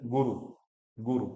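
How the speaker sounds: "गुरु" with both u's quick; short vowels. Shown as a demonstration. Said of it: "ह्रस्व ही बोलना है".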